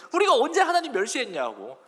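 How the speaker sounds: mildly acted indignant retort; teenage back talk. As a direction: talk back a little, like an arguing teen. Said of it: "사춘기의 딸이랑 엄마랑 싸우는 느낌". (사춘기 딸처럼 살짝 따지듯)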